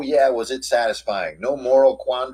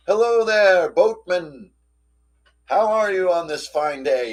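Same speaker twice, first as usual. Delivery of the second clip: higher, hearty greeting call; friendly hail; 5 semitones higher, 4 dB louder, slower than usual. Retold or imitated. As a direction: hail the boatman cheerily from the bridge. Party hails troll in rowboat.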